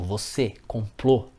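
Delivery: final Ê in "Você" and Ô in "complô" closed and stressed; vogal fechada. Shown as a demonstration. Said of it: "marca som fechado". ("Você" e "complô" com a última vogal fechada)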